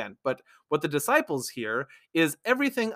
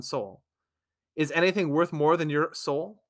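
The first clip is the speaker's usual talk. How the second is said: measured, even Bible reading voice; scripture reading. Acted. Host reading Matthew sixteen to viewers, measured scripture reading. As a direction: read the passage out steadily, like a lesson text. Reads the scripture passage aloud.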